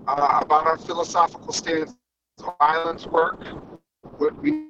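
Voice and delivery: choppy bad phone connection; breaking up. Real, not acted. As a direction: voice cutting in and out. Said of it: "You're breaking up".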